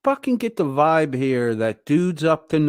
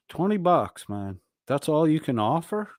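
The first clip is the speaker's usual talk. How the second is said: Twenty bucks pitched higher, scoffing and incredulous; mock disbelief; 4 semitones higher than usual. Streamer scoffing at Chili's twenty-dollar offer, higher mock disbelief.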